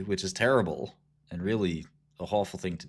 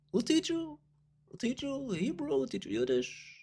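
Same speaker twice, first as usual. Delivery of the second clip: put-on high, soft Jewish accent dropping at the end; mock Jewish accent; 6 dB quieter than usual. Offering lessons in Hebrew and Yiddish, mock Jewish accent. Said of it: "I make the Jewish accent all the time".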